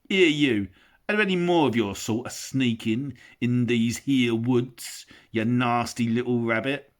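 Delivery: loud rough troll growl; menacing troll. Acted. Bert shakes Bilbo by the toes, loud menace. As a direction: threaten the little creature.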